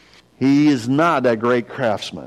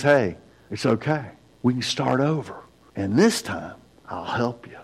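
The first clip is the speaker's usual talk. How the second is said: reassuring God; 3 dB quieter than usual. Retold or imitated. God voiced as comforting father.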